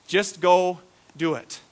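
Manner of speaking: Just go do it, said with a laugh, slowly. Shown as a demonstration. Preacher repeating the line for the church with a laugh. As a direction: chuckle through it slowly.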